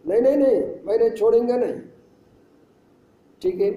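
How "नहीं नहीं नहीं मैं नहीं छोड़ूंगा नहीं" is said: mock defiance, pitched higher; retold defiant refusal. Spirit refusing to let the woman go, mildly defiant. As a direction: imitate a stubborn spirit digging in.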